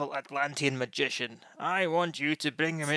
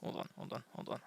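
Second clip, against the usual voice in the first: whispered; 2 semitones lower, 16 dB quieter, faster than usual. Real, not acted. GM searching notes.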